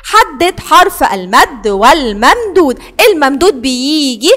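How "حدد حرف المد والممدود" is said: slowly reading the exercise aloud; teacher reading a question slowly. Shown as a demonstration. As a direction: read the instruction word by word. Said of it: "والسؤال اللي بعده بيقول".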